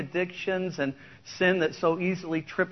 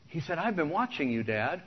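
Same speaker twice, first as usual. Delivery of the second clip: lyrics spoken like a story poem; preacher reading out a country song; song recitation. Acted.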